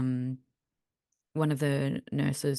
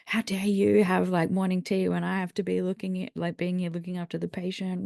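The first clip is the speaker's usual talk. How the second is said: inner outrage; 5 semitones higher than usual. Retold or imitated. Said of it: "internally I'm going".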